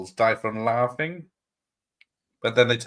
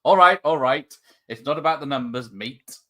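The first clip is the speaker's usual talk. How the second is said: lightly played defensive friend; mildly acted, loud on all right; acted script line; 5 dB louder than usual. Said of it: "Cue him".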